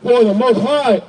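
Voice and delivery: slow, measured Bible reading; scripture reading. Acted. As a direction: read the verse out phrase by phrase. Reads scripture aloud between preaching.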